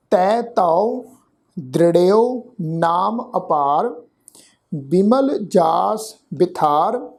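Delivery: slow, measured chanting of the verse; scripture recitation. Shown as a demonstration. Teacher reciting the verse for the congregation, slow and measured. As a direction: lay each word out slowly and reverently.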